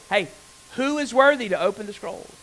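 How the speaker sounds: loud voice. Retold or imitated. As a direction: proclaim it like a herald. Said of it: "says in a loud voice".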